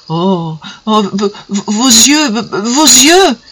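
stammers on v-, v-, vos yeux; slow, halting stammer over her eyes. Acted. The kneeling suitor stammering about her eyes, halting. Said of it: "Il bégaya".

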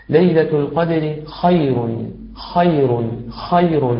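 خير with an airy, voiceless خ at its onset; careful model خير with a clearly aspirated خ; whispered-airflow kha. Shown as a demonstration. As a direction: demonstrate خير, letting breath flow through خ. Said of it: "وأوضح لك النطق المقصود".

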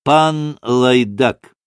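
slow, drawn-out grumbled insult; grumbling. A narrator's reading. The tall pan on the chair breaks in, grumbling slowly. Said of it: "проворчал вдруг высокий пан".

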